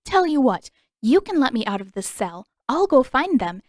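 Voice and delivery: mock him sweetly. A narrator's reading. Katara mocking the prince with false politeness, sarcastic. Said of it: "let a mocking edge creep into her voice".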